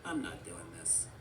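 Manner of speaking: low, quiet refusal; Forky. A narrator's reading. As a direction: drop the voice and opt out. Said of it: "Forky's like".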